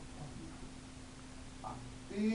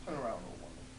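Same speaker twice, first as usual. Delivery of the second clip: low mysterious fish; deep magic fish; 11 semitones lower, faster than usual. Acted. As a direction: grant the wish gravely, pitched down. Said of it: "says the fish".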